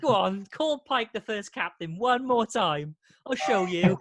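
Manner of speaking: slow, drawn-out playful dare; lightly acted threat, taking your time; mock challenge. Fan daring people to miscall Pike, slow mock challenge.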